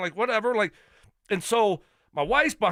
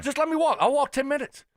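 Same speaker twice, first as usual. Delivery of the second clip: exasperated; 7 semitones higher than usual. Real, not acted. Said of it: "wants to walk, not tram".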